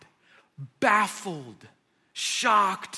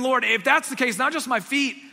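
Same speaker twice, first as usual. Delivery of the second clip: higher, louder, all-in enthusiasm; overeager Peter; 3 semitones higher, 5 dB louder than usual. Retold or imitated. Peter begging Jesus for a full bath, overeager. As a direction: throw yourself in headfirst.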